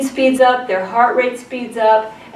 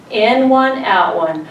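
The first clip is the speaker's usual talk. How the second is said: slow counted breathing; slower than usual. Shown as a demonstration. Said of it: "In transition".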